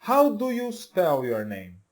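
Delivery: slow, clear English model sentence. Shown as a demonstration. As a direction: say it slowly for learners to copy. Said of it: "Então, olha só". (frase modelo devagar)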